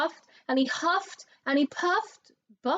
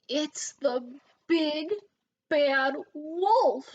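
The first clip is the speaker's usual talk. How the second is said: higher, louder alarm; cry out; 5 semitones higher, 4 dB louder, slower than usual. A narrator's reading. Pig spotting the wolf again, crying out. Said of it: "he cried".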